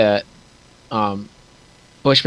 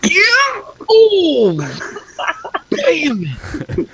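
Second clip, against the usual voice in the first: loud high yells at the dice roll; excited shout; 4 dB louder, much slower than usual. Real, not acted. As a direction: yell in excitement, then dismay.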